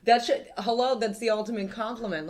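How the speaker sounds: high, loud excited protest. Real, not acted. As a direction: burst out in giddy excitement. Excited after spilling joint.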